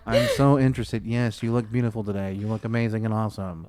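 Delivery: lightly hammed-up phone greeting, gushing compliments; imitated phone voice. Host imitating himself on calls to Kelly, mildly gushing. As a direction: put on a mildly gushy caller voice. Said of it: "anytime I talk to Kelly".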